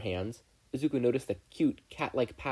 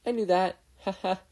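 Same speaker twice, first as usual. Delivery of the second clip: high, louder fake confidence with a forced laugh; unconvincing; 9 semitones higher, 5 dB louder than usual. A narrator's reading. Embarrassed boy pretending he got the joke, unconvincing. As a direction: bluff badly. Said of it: "he said, unconvincingly".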